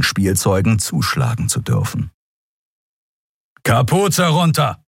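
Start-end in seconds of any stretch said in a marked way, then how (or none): 3.6-4.8 slow, forceful command; thundering order. Acted. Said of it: "donnerte der Leutnant".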